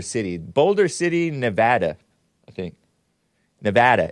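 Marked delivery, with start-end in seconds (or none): 1.3-2.0 "Nevada" with the short a of "cat"; local Nevada pronunciation. Shown as a demonstration. Host explaining the state's name, "Nevada" with a flat cat vowel. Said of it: "it's pronounced Nevada". 3.6-4.1 "Nevada" with the short a of "cat"; local Nevada pronunciation. Shown as a demonstration. Host repeating the state's name, "Nevada" with a cat vowel. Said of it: "it's pronounced Nevada".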